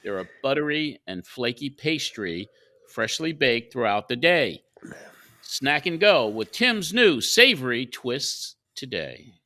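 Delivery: polished radio ad read; sponsor read. Acted. Host moving the show into the Tim Hortons segment, ad read. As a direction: read it as a host's live sponsor spot. Reads a sponsor message on air.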